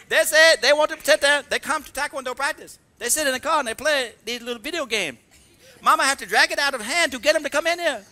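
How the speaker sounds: put-on high-pitched Korean-accented complaint; broken Korean-English. Korean master griping about kids and video games, broken Korean-English. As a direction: rant in imitation of an angry Korean instructor. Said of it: "she talks sort of broken Korean".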